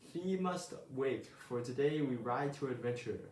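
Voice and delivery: a hint of a grand old knight; mock knightly speech. Early Bird playing knight to wake Owl, mock grand. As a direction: proclaim it like a storybook knight, lightly. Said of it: "Knights don't talk like that".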